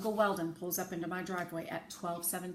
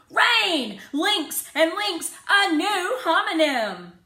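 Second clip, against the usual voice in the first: thrilled cry; 12 semitones higher, 14 dB louder, much slower than usual. A narrator's reading. Rose thrilled by homonym.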